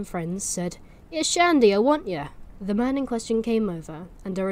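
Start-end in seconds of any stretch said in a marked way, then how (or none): 1.1-2.2 calling out. Acted. Villager calls out to Shandy.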